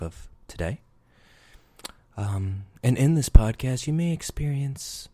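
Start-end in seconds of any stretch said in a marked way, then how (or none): 2.8-5.1 hammed-up creepy host. Host teasing the podcast's format, mock creepy voice. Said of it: "This is a creepy voice".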